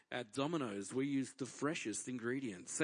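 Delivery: re-enacted pizza commercial read. New voiceover artist reading a pizza script, mock ad read. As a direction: read it like an on-hold advert. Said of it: "I'm reading this thing".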